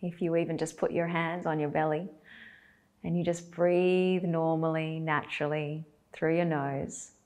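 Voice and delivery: calm guidance in short, spaced-out phrases; guided meditation. Acted. Teacher guiding belly breaths, unhurried guided meditation. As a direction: leave long silences for them to breathe.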